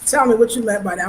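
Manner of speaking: talking while chewing popcorn; munching popcorn. Real, not acted. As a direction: mouth full of popcorn. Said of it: "I'm sorry, I'm eating popcorn".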